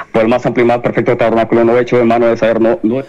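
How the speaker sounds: fast, run-together scripture reading; rushed reading. Real, not acted. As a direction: rattle the verse off without pausing. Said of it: "no está hablando como una loca".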